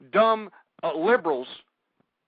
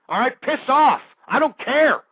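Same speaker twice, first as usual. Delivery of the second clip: louder, higher angry snap; angry outburst; 4 semitones higher, 6 dB louder than usual. Acted. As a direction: bark it at the listeners. Ranting host lashes out.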